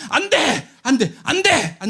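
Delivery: high repeated forbidding no; 단호한 금지. Retold or imitated. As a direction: hammer the no home. (반복해서 외치는 금지)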